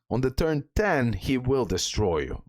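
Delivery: ordinary talk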